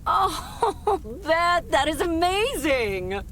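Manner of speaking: thrilled, laughing gush; delighted. Acted. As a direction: squeal with happy surprise. Reacts to grandmother news.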